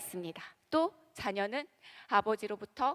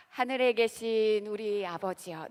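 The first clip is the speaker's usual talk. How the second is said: slow reverent prayer; 3 dB louder than usual. Shown as a demonstration. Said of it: "주기도문을 어떻게 시작합니까? 시작".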